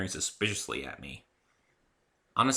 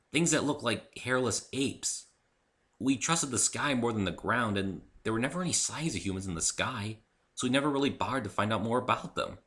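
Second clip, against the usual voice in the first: wary; 3 semitones higher than usual. Acted. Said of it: "At last she said warily".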